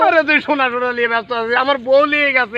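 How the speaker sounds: high, exasperated wail; upset protest. Acted. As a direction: cut in, aggrieved and distraught. Argues over wife versus gold.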